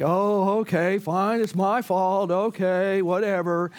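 mild mock brush-off, lightly voiced; lightly dismissive "okay, fine, whatever"; flippant apology. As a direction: toss off a half-hearted sorry. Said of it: "not in some sort of flippant way".

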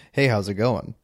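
white guy voice. Retold or imitated. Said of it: "he sounded like this".

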